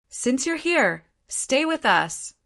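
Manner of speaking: high, slow, ghostly menace; a cold, gloomy ghost's threat. A narrator's reading. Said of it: "That cold and gloomy voice contained pain and ferocity".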